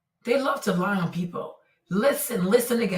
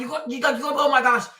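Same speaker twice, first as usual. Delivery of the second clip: normal talking voice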